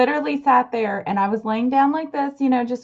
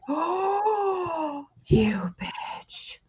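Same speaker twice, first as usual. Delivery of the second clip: mock outrage; 5 semitones higher, 6 dB quieter, much slower than usual. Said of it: "And I'm like".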